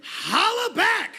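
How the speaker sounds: rapper slang voice. Pretend. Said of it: "in his hip-hop talk".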